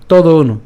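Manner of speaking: "তদ অনু" as one linked word, no break; joined up. Shown as a demonstration. Teacher repeats the joined option, run together. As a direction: say "তদ অনু" joined, with firm volume. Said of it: "আমরা একসাথে উচ্চারণ করতে পারি".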